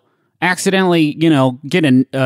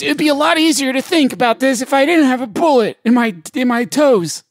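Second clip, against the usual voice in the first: pained soldier voice; 8 semitones higher than usual. Pretend. Wounded soldier complaining.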